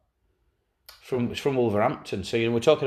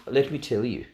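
mild South African accent, lightly put on; a quick, understated South African lilt. Telling a Brighton anecdote, light South African accent. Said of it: "I could do a South African accent".

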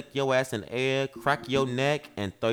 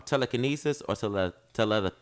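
tongue-tied, tripping over the word; stuttering tipsy; 3 semitones lower than usual. Real, not acted. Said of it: "I'm stuttering".

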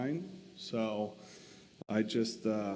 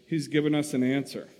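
quick, eager announcement; excitedly; 4 dB louder, faster than usual. Acted. Betsy telling Corey about God's answer, quick and excited. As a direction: rush the good news out. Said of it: "said excitedly".

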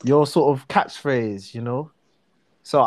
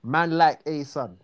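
swaggering slang line; confident South London swagger. Shown as a demonstration. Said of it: "You just say it like that with swagger".

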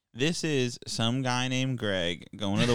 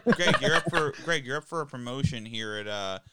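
hammed-up boss; 4 semitones higher, 4 dB louder, faster than usual. Boss voice offering promotion.

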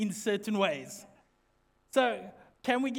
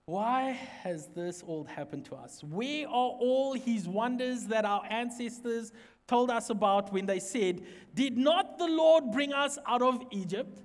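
dramatic scripture voice. Acted. Gideon questioning the angel about Egypt, dramatic scripture voice. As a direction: act out the lament with theatrical weight. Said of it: "always wanted to say it in that voice".

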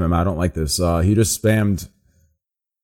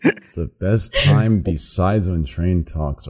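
slow, disbelieving reread; incredulous reread; 3 semitones lower, slower than usual. Shown as a demonstration. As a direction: reread it slowly, stunned. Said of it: "Are you fucking kidding me?".

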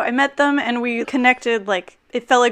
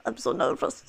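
soft, poorly imitated French accent; lightly put-on French accent; bad French accent; 8 dB quieter than usual. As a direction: attempt a French accent, quietly and not very well. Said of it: "wasn't a very good French accent".

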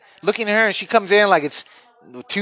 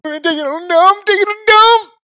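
high strained yell from the toilet; calling out; 14 semitones higher, 4 dB louder than usual. Retold or imitated. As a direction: shout it through the door, getting louder. Daughter knocking, he calls out.

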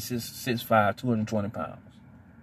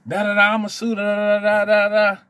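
mocking angry rant; 7 semitones higher than usual. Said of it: "oh, she was hot".

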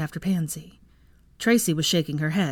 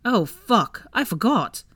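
dismayed curse; 5 semitones higher, 3 dB louder, slower than usual. A narrator's reading. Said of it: "Theo froze and then cussed".

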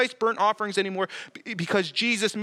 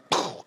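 imitated paintball impact. Imitates paintball hitting his head.

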